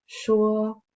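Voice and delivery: slow, suspenseful storytelling voice; story narration. A narrator's reading. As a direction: build the creepy tension slowly. Reads a spooky story aloud.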